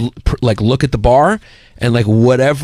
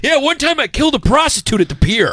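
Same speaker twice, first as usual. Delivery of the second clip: a touch of a gruff dad, pitched higher; dad's dark brag; 13 semitones higher than usual. Retold or imitated. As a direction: casually toss off a shocking confession. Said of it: "And he goes".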